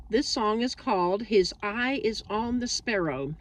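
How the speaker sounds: slight lisp from a swollen tongue. Real, not acted. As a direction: talk around a sore tongue. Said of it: "And if I'm lisping".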